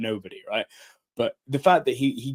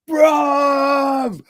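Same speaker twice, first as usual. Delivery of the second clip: long, high, loud mock shout; excited shout; 9 dB louder than usual. Wrestler lunging into a hug with a fan, imitated excited shout. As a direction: holler it, stretched out and high.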